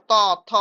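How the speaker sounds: loud ত, থ struck on the teeth; dental consonants. Shown as a demonstration. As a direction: sound out ত and থ separately, tongue hitting the teeth. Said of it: "দাঁতে যে ঘা দিতে হচ্ছে". (দাঁতে ঘা দিয়ে ত, থ উচ্চারণ)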